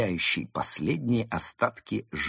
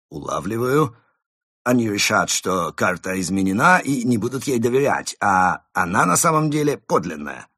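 excited; 4 semitones higher, 7 dB louder than usual. Acted. Krot excited explaining.

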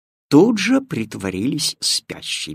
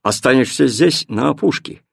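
stern; 4 dB louder than usual. Acted. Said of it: "строго сказал Тильтиль".

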